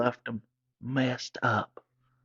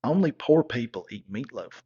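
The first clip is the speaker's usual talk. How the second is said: lightly voiced stuck-up girlfriend, falling; a hint of a snob looking down on meatloaf; mild snooty sneer; 3 dB louder than usual. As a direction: say it like it's obvious, a touch haughty. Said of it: "And she was like".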